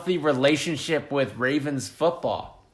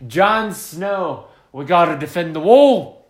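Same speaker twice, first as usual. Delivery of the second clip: a bad Game of Thrones Northern English accent, louder on "wall"; rally the Night's Watch in a hammy Northern English accent; poorly done Northern English accent as Jon Snow; terrible Northern English accent; 5 dB louder than usual. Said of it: "That was a terrible accent".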